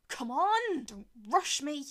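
high, loud party shouting; drunken shouting. Acted. Drunk Romans outside door.

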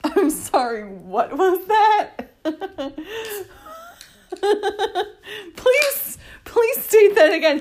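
high, loud, incredulous questioning; mock interrogation. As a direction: demand he repeat it like a judge.

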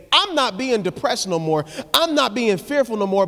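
bold declaration. Retold or imitated. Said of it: "ought to prophesy to it and say".

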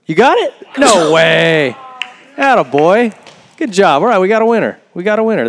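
high, loud excited cheer; dawning joy. Real, not acted. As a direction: celebrate the winner. Winner confirmed on stage.

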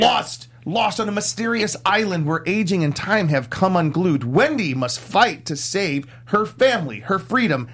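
dramatic trailer narration; movie trailer voice. Pretend. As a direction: epic movie trailer announcer. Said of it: "do your movie trailer voice".

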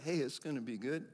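gentle, hushed aside, voiced softly; soft near-whisper. God quietly encouraging someone facing disaster, soft near-whisper. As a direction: drop it low in volume, like a quiet secret. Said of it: "God whispers to you".

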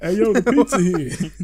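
mock calling out. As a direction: parody a man yelling from another room. Repeating the imitated pizza call.

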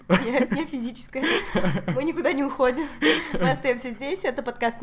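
talking through laughter; giggling while joking; laughing. Real, not acted. Joking about leaving the room.

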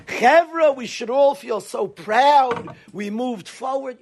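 lightly hammed-up fake speaker; fake mock pride. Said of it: "You fakers".

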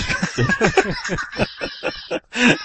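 high burst of laughter; laughing. Real, not acted. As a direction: crack up for a few seconds. Laughing about the long podcast. (carcajada aguda)

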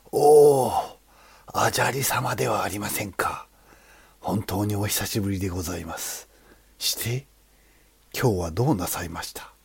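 surprised old sculptor, lightly voiced; a hint of a humble old craftsman. Sculptor greets the monk.

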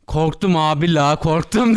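slow, drawn-out mock admission of fear; retold backing down. Friend placating angry men from the car, mock scared. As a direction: imitate a friend meekly climbing down. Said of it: "O dedi ki".

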